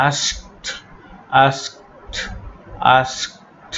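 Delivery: "আস্কড" ending in a crisp "skt"; soft, voiceless t closing "আস্কড"; final -ed as T. Shown as a demonstration. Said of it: "ট এর মতো উচ্চারণ করতে হবে". ("আস্কড"-এর শেষে ট উচ্চারণ)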